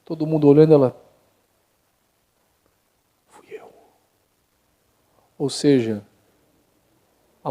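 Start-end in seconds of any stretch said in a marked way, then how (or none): 3.3-3.7 timid small voice. Acted. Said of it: "com uma voz assim baixinha".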